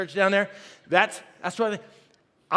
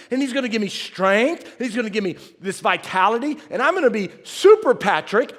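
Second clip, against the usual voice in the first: mock bravado; 3 semitones higher, 5 dB louder than usual. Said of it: "'Cause I thought".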